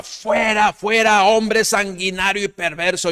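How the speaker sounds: high, loud yelling curse; cursing shout. Acted. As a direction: hurl it at the king like stones. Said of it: "le gritaba".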